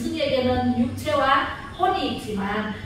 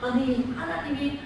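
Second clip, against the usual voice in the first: wavering Eve. Retold or imitated. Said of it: "이렇게 또 물어요".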